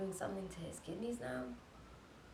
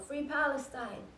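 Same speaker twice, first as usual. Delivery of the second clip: mild imitated protest cry, raised pitch; retold screaming; 4 semitones higher, 3 dB louder than usual. Imitating Yara at her window at night, retold protest scream. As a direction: call out the slogans higher, short of a scream. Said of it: "She was screaming out her window".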